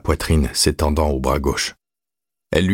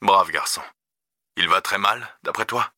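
slightly raised, quieter voice; lightly voiced concerned dad; father on phone; 4 semitones higher, 4 dB quieter than usual. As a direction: question a son with restrained concern. Father questions son by phone.

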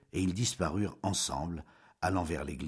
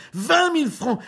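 much higher, much louder repeat of vingt mille francs; shrieking outrage; 11 dB louder than usual. Acted. Julien screaming the sum at Jeanne, scandalised.

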